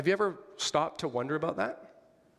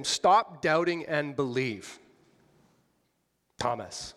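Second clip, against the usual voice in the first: petulant rebuke; slower than usual. Shown as a demonstration. To Thomas, Jesus as a petulant child scolding him. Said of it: "in a tone sort of like what I just said".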